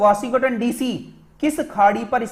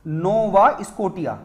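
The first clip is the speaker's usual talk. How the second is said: slow repeat; 2 semitones lower, slower than usual. Shown as a demonstration. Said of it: "इसका नाम है नोवा स्कोटिया".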